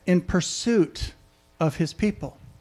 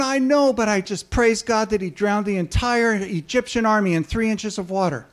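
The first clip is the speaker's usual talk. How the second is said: excited woman; 4 semitones higher than usual. Retold or imitated. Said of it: "And she's going".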